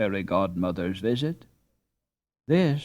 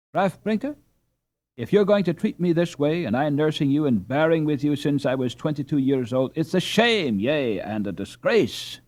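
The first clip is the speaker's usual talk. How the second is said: much higher, louder, indignant wife scolding; indignant cry; 5 semitones higher, 4 dB louder than usual. A narrator's reading. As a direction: scold him till she runs out of breath. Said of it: "cried the Frau".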